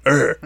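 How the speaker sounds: short guttural grunt; grunt demo. Shown as a demonstration. Showing friends a Monster Hunter grunt, short grunt. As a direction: give a little game grunt. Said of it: "something like that".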